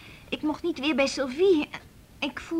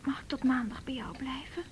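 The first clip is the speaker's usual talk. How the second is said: whispered plea; 7 dB quieter than usual. Real, not acted. Timid plea to stay.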